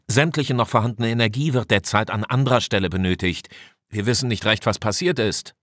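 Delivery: lightly voiced engineer, a little pressed; chief engineer reporting. Engineer explains power failure to the commander, mildly pressed. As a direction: report back over the intercom with mild urgency.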